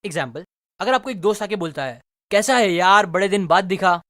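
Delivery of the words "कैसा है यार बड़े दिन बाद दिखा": excited greeting, hit louder at the start. Shown as a demonstration. Friend greeting you after many days, excited. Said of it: "excited tone में पूछ रहा है".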